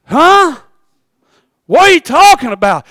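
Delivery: high, loud, pleading disbelief; sick man yelling back at friends about clothes; exasperated sick man. Acted. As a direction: cry out slowly in disbelief. Paralytic protests.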